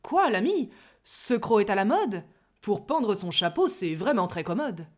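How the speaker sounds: breezy, cheeky familiarity; offhand. Acted. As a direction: toss it off casually. (cavalier et désinvolte)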